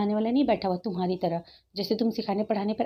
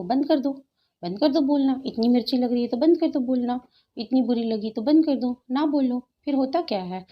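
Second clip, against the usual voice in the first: raised and higher, telling critics to shut up; angry raised voice; 3 semitones higher than usual. Real, not acted. Vlogger snapping at her haters, angrily raised voice. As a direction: hammer 'बंद कर दो' up high like an order.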